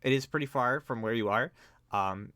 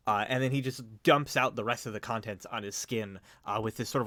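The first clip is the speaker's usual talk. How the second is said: ordinary talk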